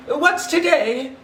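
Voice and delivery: high, slow, joyful call out the window; eager cry. Acted. Scrooge calling down to a boy, eager and joyful. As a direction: call down to the street, bursting with joy. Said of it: "cried Scrooge".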